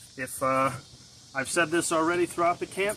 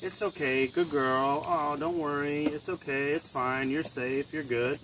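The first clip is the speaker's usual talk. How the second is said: upward sing-song reassurance; coddling raised tone. Shown as a demonstration. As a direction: lift each phrase, cooing. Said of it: "we have a raised tone".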